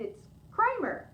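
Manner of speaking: slow, high drawn-out name; character voice, drawn out. Acted. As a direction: stretch the name out slowly. Woman gives her name.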